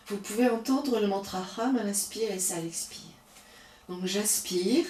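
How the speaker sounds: calm, unhurried yoga guidance; soothing yoga teacher talking students through the breaths; guided yoga breathing. Acted. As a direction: lead the class gently through each breath.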